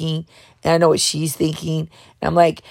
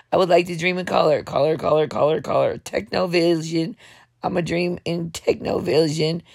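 bedtime self-suggestion; 3 dB quieter than usual. Shown as a demonstration. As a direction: murmur it to yourself before sleep. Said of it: "tell yourself before you go to sleep".

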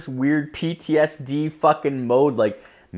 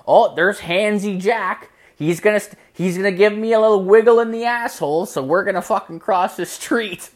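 high-pitched, animated mock warning; animated mock mom; 9 semitones higher, 4 dB louder than usual. Mom spotting Handsy Jack on the street, animated warning. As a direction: act out spotting the local creep, voice up high.

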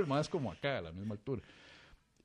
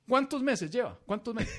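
barber's voice; 9 semitones higher than usual. Retold or imitated. Barber voiced, high pitched.

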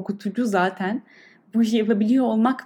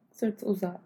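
guided meditation. Acted. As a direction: calmly guide the breath. Leads a breathing meditation. (yavaş, yumuşak meditasyon sesi)

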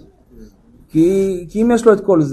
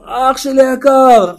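mock calling out; 4 semitones higher, much slower than usual. Rescuer on the roof calling to the jumper, long mock shout. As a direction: stretch it out like an imitated shout. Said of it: "אז הוא צועק לו".

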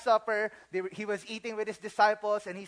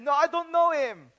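louder, higher flat refusal; insistent denial; 6 semitones higher, 5 dB louder than usual. Acted. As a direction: deny it hard. Peter keeps denying.

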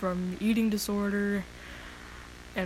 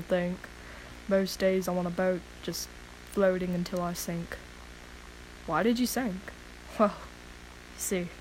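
poem reading; 3 dB quieter than usual. Acted. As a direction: recite it softly, heavy-hearted. Reads her own poem.

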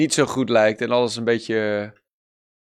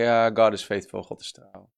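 mock casual cliché; 5 semitones lower than usual. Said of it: "Veel mensen zeggen".

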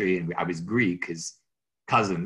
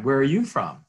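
high, loud, eager repeat of the opener; bright friendly greeting; 6 semitones higher, 5 dB louder than usual. Retold or imitated. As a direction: ask it like a cheerful realtor. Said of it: "My typical opening line".

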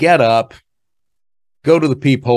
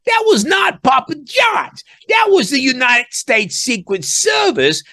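emphatic reveal. Real, not acted. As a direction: spell out the shocking twist slowly. Revealing the caller's real identity.

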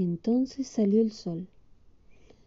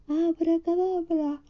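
high, slow drawn-out magic word; the witch Winnie shouts her spell, high and slow; witch's spell call; 9 semitones higher, slower than usual. Acted. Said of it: "y gritó".

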